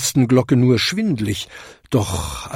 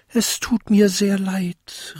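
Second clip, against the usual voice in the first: high apologetic little-bell voice; little bell calling out; 9 semitones higher than usual. A narrator's reading. Smallest bell apologises to the others, high-pitched. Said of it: "rief die kleinste Glocke".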